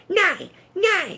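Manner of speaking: mock a tiny Bavarian German henchman; high-pitched Bavarian German accent. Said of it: "in a very high-pitched, Thaw Bavarian German accent".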